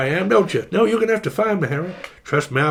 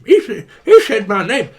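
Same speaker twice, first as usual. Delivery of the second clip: louder, giddy with laughter; excited laughing; 3 semitones higher, 5 dB louder than usual. Pretend. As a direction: shout it through a laugh.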